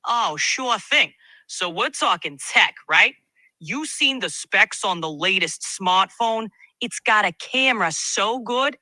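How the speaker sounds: streetwise Brooklyn tech talk; lightly voiced Brooklyn guy; Brooklyn accent. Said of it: "now switch to a Brooklyn accent".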